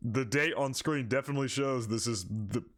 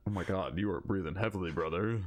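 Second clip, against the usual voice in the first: ordinary delivery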